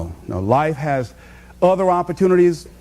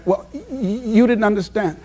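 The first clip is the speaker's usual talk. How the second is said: imitated stutter. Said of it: "she stutters".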